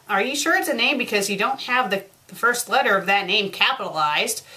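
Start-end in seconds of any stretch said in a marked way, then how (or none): none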